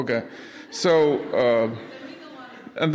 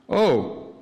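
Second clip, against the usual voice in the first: higher, slow, puzzled Swedish coast guard; Swedish accent; 7 semitones higher, slower than usual. Retold or imitated. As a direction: mishear the mayday in a thick Swedish accent. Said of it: "that's about our accent".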